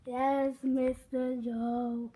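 tired drone. Acted. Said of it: "You guys all seem really tired".

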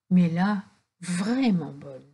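vraiment bonne slowed and softened; emphasis. A narrator's reading. Narrator insisting the old woman was truly good, slow. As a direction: lean gently on vraiment bonne.

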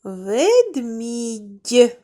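Ведмідь each sound clear; Ведмідь said clearly for children to echo; model word. Shown as a demonstration. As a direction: say it for the class. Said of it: "Вимовте його".

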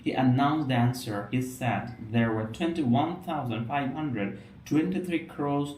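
slow, measured read-aloud with aspirated k, p and t; deliberate English pronunciation model, phrase by phrase; careful demonstration reading. Shown as a demonstration. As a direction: read slowly, stressing the puffed consonants. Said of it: "তিনটা জায়গায় কিন্তু basically জোর দেওয়ার চেষ্টা করেছি".

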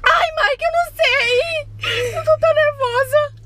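high tearful pleading, slowing down; crying panic. Pretend. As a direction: beg through fake sobs. Fake accident prank call panic. (choro nervoso e suplicante)

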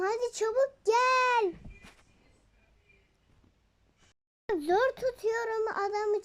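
a worried mom pleading down the phone; urgent mother. Pretend.

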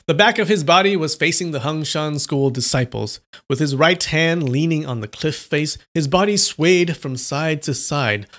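steady read-aloud storyteller voice; story narration. A narrator's reading. Reading a novel aloud to live viewers, narrator voice. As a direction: tell it like a novel being read out.

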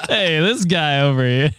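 laughing mock Italian-American wiseguy; playful Italian-American accent. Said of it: "with the Italian accent".

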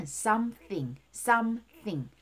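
SOMETHING in two separated syllables with clear TH; pause, then put tongue to teeth for THING; deliberate "some-thing" model; careful TH. Shown as a demonstration. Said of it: "티에이치는".

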